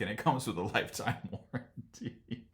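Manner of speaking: words breaking up into real laughter; laughing. Real, not acted. Quoting the new owners' warranty offer, laughing. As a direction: crack up before the last word is out. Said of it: "I shouldn't laugh".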